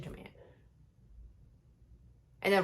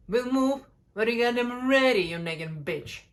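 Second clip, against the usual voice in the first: imagined rude retort; 2 semitones higher, 4 dB louder than usual. Retold or imitated. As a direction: imitate a stranger's dragged-out insult. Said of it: "They would probably say something like".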